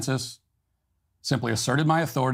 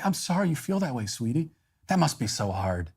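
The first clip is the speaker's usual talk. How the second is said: mock tender; 4 dB quieter than usual. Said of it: "look her in the eyes and say".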